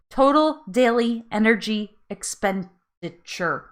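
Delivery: slow, deliberate word by word; careful recitation. Real, not acted. Retrying a term she botched, careful and slow. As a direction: carefully sound out a tricky term. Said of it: "I was gonna botch this".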